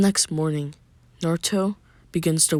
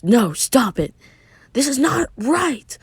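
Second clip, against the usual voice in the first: raised, high-pitched refusal; protesting cry; 9 semitones higher, 4 dB louder, slower than usual. Acted. Narrator voices a character refusing firmly, protesting cry. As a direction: cry out in protest, stretching the last words.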